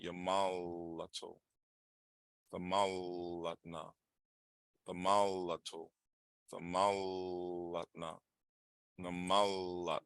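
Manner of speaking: yamalato and thamalatna said slowly, syllable by syllable; slow drilled pronunciation. Shown as a demonstration. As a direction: drill each form slowly. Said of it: "you want to do now".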